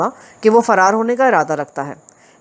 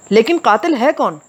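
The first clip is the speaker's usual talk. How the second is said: a protesting, higher challenge; questioning in protest; 4 semitones higher than usual. Acted. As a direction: push back with the question. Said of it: "इस्तिफसार में एहतजाज शामिल था". (विरोध भरे लहजे में सवाल)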